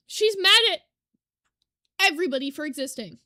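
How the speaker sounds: talking through hiccups; hiccuping between words. Real, not acted. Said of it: "Sorry, I have hiccups".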